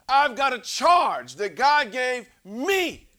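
high, loud building proclamation; full-force preaching. Acted. Preacher declaring his God-given charge, loud and high. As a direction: preach it with rising fire.

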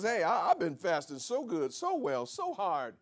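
mock bragging, laughing, rising high and loud; self-righteous boast.

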